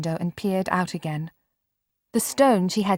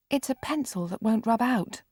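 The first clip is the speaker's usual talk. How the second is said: miserably; 6 semitones higher than usual. Acted. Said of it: "Marianne said miserably".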